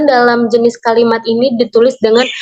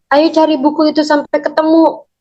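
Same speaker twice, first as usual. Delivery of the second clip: "Ayo cari buku itu" urged on a sustained higher pitch; command intonation; 4 semitones higher than usual. Shown as a demonstration. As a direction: keep the whole order lifted to the end. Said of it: "memiliki intonasi untuk memerintah sehingga memiliki nada suara yang naik". (intonasi memerintah dengan nada naik)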